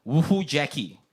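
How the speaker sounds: "Woohoo, Jackie." said level and deadpan, no exclamation; flat woohoo. Shown as a demonstration. Host rereading the chat message, deadpan and flat. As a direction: read it dry and unenthused. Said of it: "it's more like".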